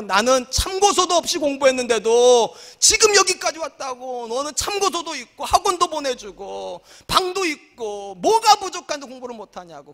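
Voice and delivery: slow, nagging parental scolding. Retold or imitated. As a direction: lecture the child who won't study. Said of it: "우리 부모님들이 그러잖아요". (느리게 잔소리하는 부모)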